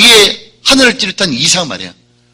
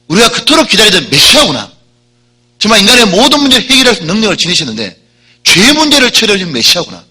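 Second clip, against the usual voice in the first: 그토록 and 문제를 stressed, louder and higher, swelling with awe; awed realization; 6 semitones higher, 5 dB louder than usual. Retold or imitated. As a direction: cry out the realization, rising in wonder. Thief's realization, preached loud. (깨달음에 벅차 높고 크게 외치듯)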